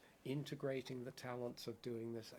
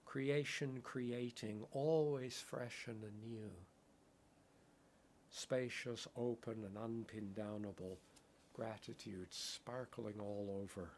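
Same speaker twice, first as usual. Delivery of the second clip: contemplative poem reading. Acted. Poetic contemplative recitation.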